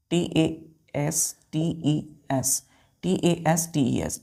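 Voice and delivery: letters of T A S T E S read out one by one, very slowly; slow spelling. Shown as a demonstration. Teacher spelling a word for children, very slow. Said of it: "spelling tastes for class".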